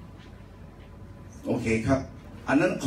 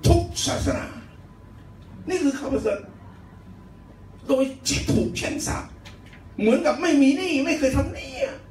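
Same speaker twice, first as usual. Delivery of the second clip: high-pitched, forceful sermon delivery; impassioned preaching; 12 semitones higher than usual. Real, not acted. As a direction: proclaim good news in short, high bursts. (เทศนาเสียงสูงเร้าใจ)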